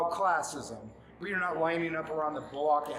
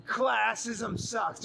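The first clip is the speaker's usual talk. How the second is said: mocking quote; 5 semitones higher, much slower than usual. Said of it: "Talking about".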